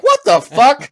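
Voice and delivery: high, loud, laughing disbelief; laughing mock outrage. New ghost handed a wheelchair, laughing shocked outrage. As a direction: act stunned by a ghost wheelchair. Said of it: "And you're like".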